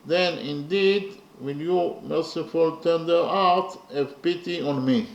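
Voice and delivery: slow, emphatic verse reading; slow, measured poetry reading, firmly projected; poem recitation. Real, not acted. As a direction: declaim each phrase with weight, pausing between.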